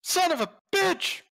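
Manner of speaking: high-pitched squealed curse; frustrated cursing. Acted. Player cursing after eight damage, high frustrated squeal.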